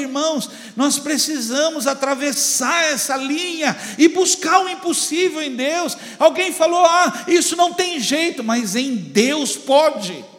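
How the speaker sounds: high-pitched, driving sermon delivery; full-force preaching. Real, not acted. Pastor exhorts the brothers to seek the impossible, fervent preaching.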